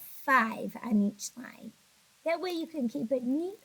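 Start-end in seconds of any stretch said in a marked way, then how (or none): 2.2-3.6 yawning. Real, not acted. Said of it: "that yawn snuck in".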